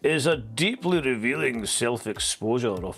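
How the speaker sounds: lightly posh, measured reading of his own tweet; erudite posh voice. Shown as a demonstration. Streamer reading out his own tweet, a touch posh and erudite. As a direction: read it like a learned pundit, a touch posh. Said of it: "read it in a voice like that".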